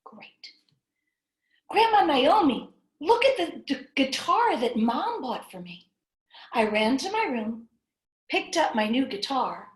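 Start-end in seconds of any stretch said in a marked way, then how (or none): 1.7-5.9 lightly voiced eager boy, a bit higher; lightly voiced excited kid. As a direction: call out to grandma proudly.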